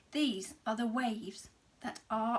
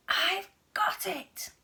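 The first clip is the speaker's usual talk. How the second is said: sudden idea; 8 semitones higher, 6 dB louder than usual. A narrator's reading. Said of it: "she cried".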